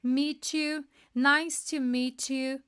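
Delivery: "Meet you" joined as "mitchi", flowing into "nice to meet you"; linked meet you. Shown as a demonstration. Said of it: "até juntaria aqui pra ficar mais fácil".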